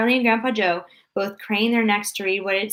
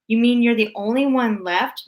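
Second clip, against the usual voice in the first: mock surprise; 3 semitones higher than usual. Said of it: "pretending to be surprised".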